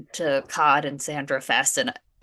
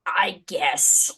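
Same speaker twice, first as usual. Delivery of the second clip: whispered, resigned; whispered shrug. Real, not acted. Player whispers a resigned answer to the GM. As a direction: breathe it out, giving up.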